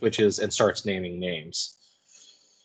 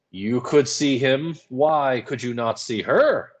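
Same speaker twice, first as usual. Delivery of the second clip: stern interrogation; 3 semitones higher, slower than usual. Acted. Paris interrogating Tituba.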